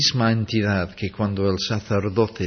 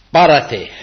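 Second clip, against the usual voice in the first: loud, higher command to the storm; 4 semitones higher, 10 dB louder than usual. Acted. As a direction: bark the order at the storm.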